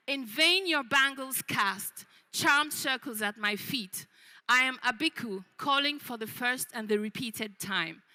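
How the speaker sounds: slow, measured verse recital; poem reading. Acted. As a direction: read it as verse, drawing out the words. Reads a poem.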